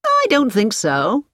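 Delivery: cheerful. A narrator's reading. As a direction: say it cheerfully, taking your time. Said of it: "Andy Peters smiled cheerfully".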